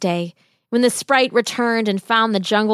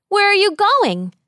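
high calling fairy voice; sprite calling out; 11 semitones higher, 3 dB louder than usual. A narrator's reading. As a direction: call out like a sprite. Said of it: "called the sprite".

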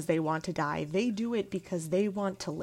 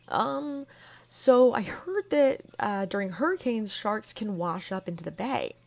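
nervous uncle; 3 semitones higher than usual. Retold or imitated. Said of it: "and he's looking pretty nervous".

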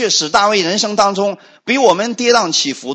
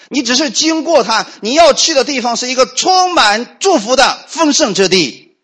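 fervent preaching; 6 semitones higher than usual. Acted. Preacher urging the congregation in a fervent, raised voice. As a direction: press the hope home to the flock.

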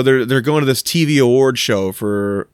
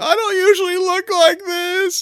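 mock flustered Mary; slower than usual. Mary's embarrassed award speech.

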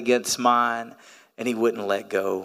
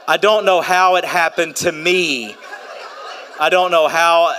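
laughing; 5 semitones higher, 4 dB louder than usual. Real, not acted. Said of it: "laughing at having many kids".

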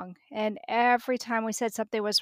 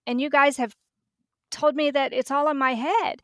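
mildly heated protest, louder toward the end; retold indignant protest; 4 semitones higher, 5 dB louder than usual. Mother retelling her protest to the pediatrician, indignant. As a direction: push back at being dismissed, emphatically.

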